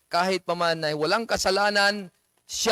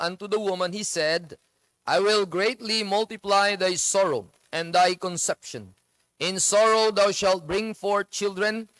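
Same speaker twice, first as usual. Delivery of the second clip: slow, deliberate verse reading; scripture reading. Acted. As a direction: read it out like a pulpit verse. Preacher reads Genesis verse. (mabagal na pagbasa ng talata)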